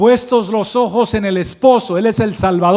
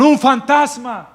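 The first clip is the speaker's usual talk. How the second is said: higher, slow cry of fright; mild mock fearful cry; 6 semitones higher than usual. Disciples see a figure on the water and cry out in mild mock fright. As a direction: lightly act the frightened disciples. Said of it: "gritaron y dijeron".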